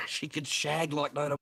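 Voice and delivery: laughing repeat of the line. Real, not acted. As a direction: chuckle through it.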